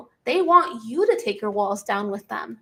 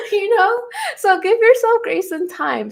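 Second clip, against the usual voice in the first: excited urging; 9 semitones higher, 5 dB louder than usual. Real, not acted. Urging viewer after laughing.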